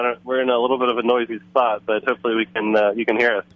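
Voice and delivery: on speakerphone in a noisy bar; talking over speakerphone; phone speaker. Real, not acted. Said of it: "So we'll try to put on speakerphone".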